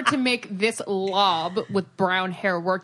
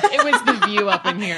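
laughing; 11 semitones higher, 5 dB louder than usual. Real, not acted. Joking about the earlier episode.

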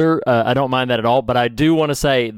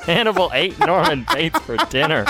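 laughing; 10 semitones higher than usual. Retold or imitated. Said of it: "That's terrible".

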